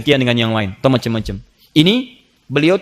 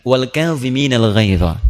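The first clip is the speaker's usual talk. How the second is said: a slow, lower, careful quote of the verse; slow deliberate recitation; 3 semitones lower, much slower than usual. Acted. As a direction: recite it slowly to calm the master. Servant recites verse to master. (pembantu melantunkan ayat dengan pelan dan khidmat)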